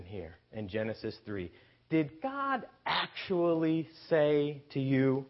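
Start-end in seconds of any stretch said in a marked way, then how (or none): 1.9-5.2 slow, sly mocking question. Shown as a demonstration. Preacher voices the serpent to the woman, slow and sly. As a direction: let the doubt drip off each word. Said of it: "Notice the mode of his deception".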